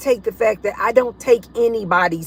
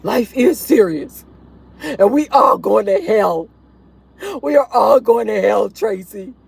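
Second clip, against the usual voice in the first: imitated stern warning. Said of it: "I remember somebody was telling me".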